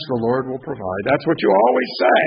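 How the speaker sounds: tired wife throwing his words back; exasperated echo. Acted. Wife echoes him, exasperated.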